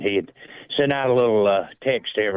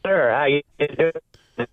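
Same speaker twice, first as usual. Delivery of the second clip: call dropping out; 7 semitones higher, much slower than usual. Real, not acted. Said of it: "you're kinda breaking up".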